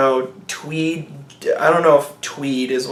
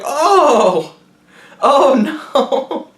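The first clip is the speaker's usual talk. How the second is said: high, loud hammed-up panic; mock dying cry; 9 semitones higher, 4 dB louder, much slower than usual. Old lady attacked by bats, hammed-up high cry of panic. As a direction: play the death cry for laughs.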